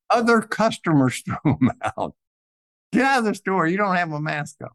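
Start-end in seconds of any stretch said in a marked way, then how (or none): 2.9-4.7 mild mock yell, pitched higher at the start; retold scream. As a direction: imitate an angry customer shouting, only half-hearted. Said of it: "And they were screaming".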